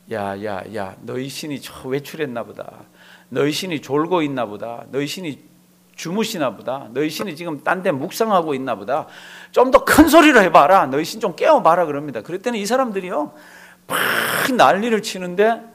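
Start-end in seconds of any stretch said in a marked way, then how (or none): 0.1-9.1 mocking taunt. Elijah taunting the prophets of Baal, in low scornful mockery. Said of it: "엘리야가 이렇게 얘기합니다". 9.5-11.8 louder and higher, jeering call; mocking shout. Elijah jeering at the Baal prophets, a loud mocking shout. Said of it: "엘리야가 이렇게 얘기합니다".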